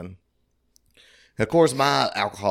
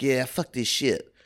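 imitating the ladies; 6 semitones higher than usual. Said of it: "they were like".

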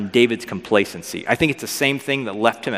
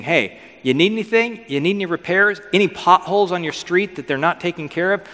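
higher-pitched, hinting at a hawker's pitch; lightly voiced fixer; 6 semitones higher than usual. Absalom at the city gate offering favours, lightly voiced fixer. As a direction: offer help to passers-by, lightly acted.

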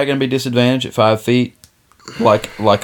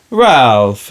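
dramatic wife; 4 dB louder than usual. Retold or imitated. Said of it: "this dramatic".

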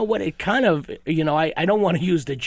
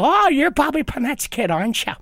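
put-on Irish accent; 5 semitones higher than usual. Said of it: "dialects and stuff".

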